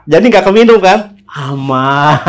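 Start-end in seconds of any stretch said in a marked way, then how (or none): 1.3-2.3 drawn-out, relieved "safe"; relieved laugh. Retold or imitated. Storyteller recalling the spilled glass, laughing relief. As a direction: stretch the word as laughter breaks in.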